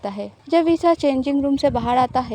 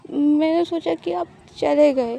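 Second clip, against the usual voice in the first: slow, lightly tearful voice; teary; 3 semitones higher than usual. Acted. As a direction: say it as if holding back tears. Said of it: "अरे तुम रो क्यों रहे हो?". (धीमी, हल्की रुआँसी आवाज़)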